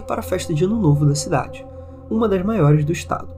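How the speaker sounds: measured reading, pauses between phrases; story narration. A narrator's reading. Podcast host reading a listener's haunted-house account, measured narration.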